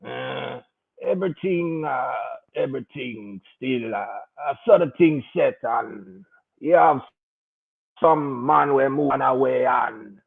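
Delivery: lightly voiced, low and hesitant mumble; vague mumbling friend. Imitating the Rasta friend's vague ramble. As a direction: mimic a friend rambling nowhere in vague terms. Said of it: "always talk in confusing, vague, unspecific terms".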